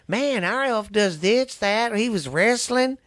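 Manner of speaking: put-on high, eager kid bragging; excited kid voice. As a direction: brag like a wide-eyed child. Voicing kids bragging.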